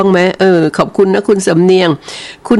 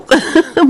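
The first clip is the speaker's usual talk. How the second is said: quick laugh; 12 semitones higher than usual. Real, not acted. Joking that no one cooked.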